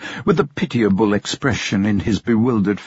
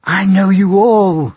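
fervent declaration; 8 semitones higher, 6 dB louder than usual. Acted. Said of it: "said Bertha".

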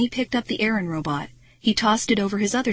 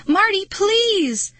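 high, loud, drawn-out begging shout; desperate plea; 12 semitones higher, 5 dB louder, much slower than usual. A narrator's reading. Girl begging Marty to stop, desperate. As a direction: call out slowly, stretching the plea.

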